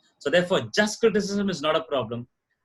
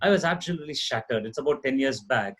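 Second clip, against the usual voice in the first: low, slightly softened telling; subdued recollection of grief; 5 semitones lower, 3 dB quieter than usual. Real, not acted. Speaker recalls his nephew's death in an accident, subdued and low. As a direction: recount a painful loss, pitch sunk low. Recounting a bereavement in the family.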